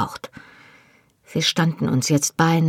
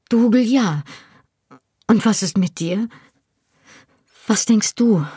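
higher-pitched questioning voice; 5 semitones higher than usual. A narrator's reading. Claire asks Jamie what he thinks, questioning. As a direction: lift it into a woman's question.

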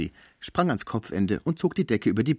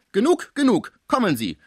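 higher, louder urgent warning; pleading German friend; 12 semitones higher, 6 dB louder than usual. A narrator's reading. Schmucke begging the concierge to stop, high and urgent. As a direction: warn her she'll upset him.

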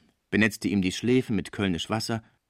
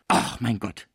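startled, drawn-out exclamation; mild cry of alarm; slower than usual. Acted. Cibot hears a body fall, mildly alarmed cry. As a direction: let out an understated shocked cry. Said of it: "schrie die Cibot".

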